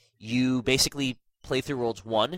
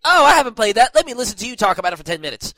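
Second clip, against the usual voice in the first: bored sarcasm; 9 semitones higher, 9 dB louder, faster than usual. Retold or imitated. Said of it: "where it's like".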